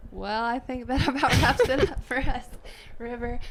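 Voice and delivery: laughing anchor. Pretend.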